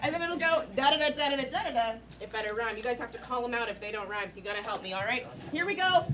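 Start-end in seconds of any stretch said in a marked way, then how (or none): 0.8-1.9 "da-da-da" chanted as a metre; rhythm demo. Shown as a demonstration. Host showing the answering line, "da-da-da" chanted rhythmically. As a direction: tap out each "da-da-da" evenly by voice. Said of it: "you know how it's gonna go".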